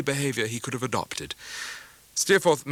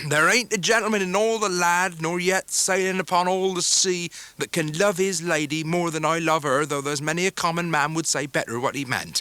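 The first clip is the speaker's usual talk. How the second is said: earnest Ham; 4 semitones higher than usual. A narrator's reading. Ham declaring love for Em'ly, earnest burst. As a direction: blurt it out with all his heart.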